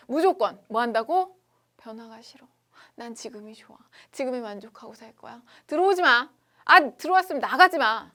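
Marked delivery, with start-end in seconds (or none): 1.8-5.4 아주 작게 속삭이듯; 혼잣말처럼 작게 고집 부리며; 조용히 투정. Acted. 변화를 싫어하는 자석 속삭임. 5.7-8.1 높고 크게 막아서며; 못 들어오게 소리쳐. Acted.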